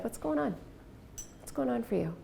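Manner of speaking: soft, even question; just ask simply and softly; quiet caring question; calm question. Retold or imitated. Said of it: "I didn't change my tone of voice".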